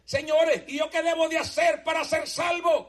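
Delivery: high, shouted cry for salvation; desperate plea. Retold or imitated. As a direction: beg as if his life depends on it. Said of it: "el hombre desesperado".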